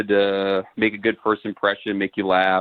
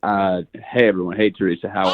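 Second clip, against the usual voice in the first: Matthew McConaughey; 3 semitones lower, faster than usual. Acted. Caller greets the show and his date, lightly doing McConaughey. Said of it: "get to know Matthew McConaughey".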